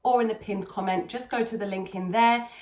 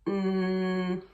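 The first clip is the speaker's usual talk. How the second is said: growled hum; 2 semitones lower than usual. Shown as a demonstration. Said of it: "start there".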